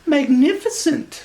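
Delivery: high, slow gushing praise; mock delight. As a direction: lay on the flattery. Princess praising the dragon.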